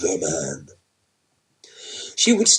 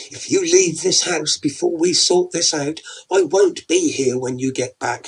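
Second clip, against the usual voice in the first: hissed threat; 6 semitones higher, 4 dB louder than usual. Acted. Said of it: "she hissed at him".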